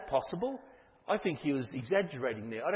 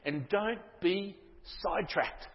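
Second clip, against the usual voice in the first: firm declaration; 5 semitones higher, 5 dB louder, slower than usual. Acted. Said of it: "He says".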